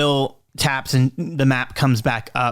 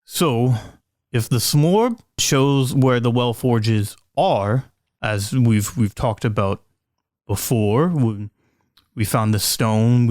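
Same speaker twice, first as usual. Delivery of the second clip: Edward explaining; slower than usual. Acted. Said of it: "Edward ... says".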